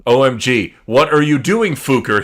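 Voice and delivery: loud, hammed-up yelling; angry shout. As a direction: bark it like a furious teacher. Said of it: "he shooted angrily".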